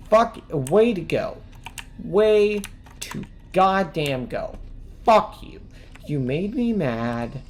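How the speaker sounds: loud frustrated ranting; angry ranting. Real, not acted. Player cursing the game after dying, loud angry rant. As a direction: spit the curses out at the screen. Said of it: "I'm actually mad now".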